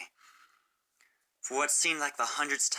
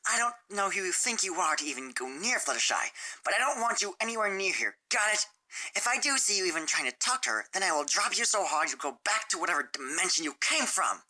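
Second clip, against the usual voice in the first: raised, tough threatening voice; yelled threat; 8 semitones higher than usual. Acted. Rainbow Dash threatening Sunset, mild yelled threat. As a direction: menace her, jabbing each line. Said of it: "Rainbow yelled".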